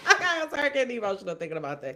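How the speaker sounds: breaking into a teary laugh mid-sentence; emotional laughing. Real, not acted. Podcaster laughs off getting emotional, teary laughing. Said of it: "I started getting kinda emotional".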